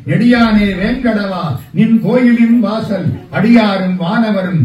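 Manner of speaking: put-on measured, reverent reading of an old hymn line; devotional verse recitation. Preacher reciting an Azhvar hymn to the congregation, reverent and measured.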